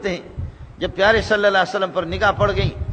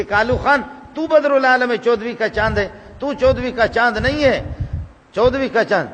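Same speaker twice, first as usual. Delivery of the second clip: mock taunt. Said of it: "missile تو میرے طرف پھینک دی".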